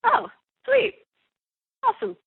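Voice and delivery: high, bright relieved reply; delighted surprise. Retold or imitated. Voice actor reacting to fans' praise, high and delighted. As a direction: react like you just got good news. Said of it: "And I was like".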